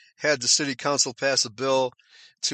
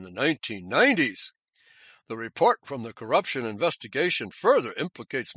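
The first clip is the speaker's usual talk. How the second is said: serious newsreader voice; 3 semitones lower than usual. Shown as a demonstration. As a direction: read it like a sober BBC anchor. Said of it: "I'll just put on a serious accent".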